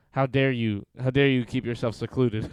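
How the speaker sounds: mock indignant. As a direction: scold with fake indignation. Mock scolding a username.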